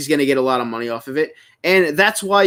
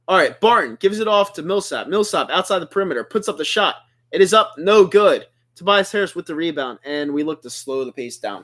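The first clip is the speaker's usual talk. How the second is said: live play-by-play; 2 semitones lower than usual. Real, not acted. Streamer calling a Sixers game for viewers, live play-by-play. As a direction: call each pass and shot as it happens.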